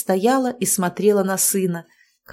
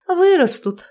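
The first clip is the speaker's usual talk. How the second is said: high, louder brush-off; dismissive; 10 semitones higher, 5 dB louder than usual. A narrator's reading. Wife brushes off husband's objection, dismissive. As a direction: wave the worry away. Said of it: "отмахнулась я".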